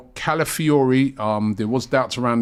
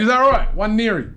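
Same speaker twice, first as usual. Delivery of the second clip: high mock query; 8 semitones higher, 3 dB louder, faster than usual. Shown as a demonstration. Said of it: "Mister Kaplan".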